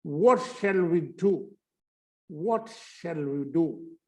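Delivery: very slow model of 'what shall we do'; reduced 'shall'. Shown as a demonstration. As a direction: demonstrate 'shall' as a short 'shl', slowly. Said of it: "यहाँ पे इसी में ये voice खपा गई". (धीमा नमूना उच्चारण)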